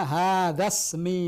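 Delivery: Hadza ismi read slowly and clearly as a model; slow, careful teacher demo of Hadza ismi. Shown as a demonstration. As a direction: spell out Hadza ismi for the student. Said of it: "Nah, bagaimana?".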